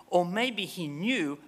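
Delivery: slow, hushed whisper; slow secretive whisper. Real, not acted. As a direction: drop to a whisper to land the point. Quoting the argument's second option.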